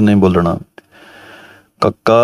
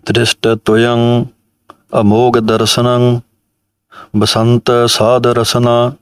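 measured recitation. Shown as a demonstration. Reciting line.

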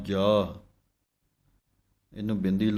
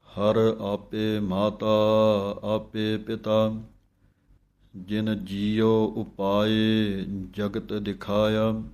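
slow chanted reading of the hymn; scripture recitation; much slower than usual. Shown as a demonstration. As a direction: recite the verse slowly and devoutly.

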